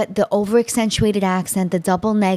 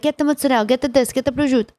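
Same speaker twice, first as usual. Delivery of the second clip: put-on grandfather's Italian-American accent; 4 semitones higher, faster than usual. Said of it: "my grandfather would be like".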